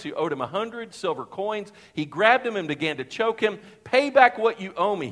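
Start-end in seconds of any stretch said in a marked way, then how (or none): 3.8-5.1 mild demanding. A narrator's reading. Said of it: "he demanded".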